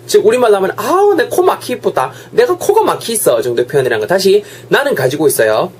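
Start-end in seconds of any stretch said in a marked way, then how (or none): 0.8-3.4 acting stuffed up. Acting a stuffy-nosed person.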